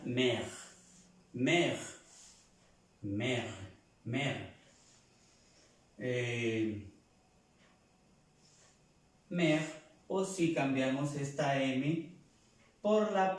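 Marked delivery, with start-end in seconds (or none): 0.0-4.5 "mère" as one syllable with open è; French pronunciation demo. Shown as a demonstration. Teacher giving the French word for mother, pronunciation demo. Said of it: "se pronuncia". 9.3-9.6 "mère" short, higher and louder; French pronunciation demo. Shown as a demonstration. Teacher repeating the French for mother, pronunciation demo. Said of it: "se pronuncia".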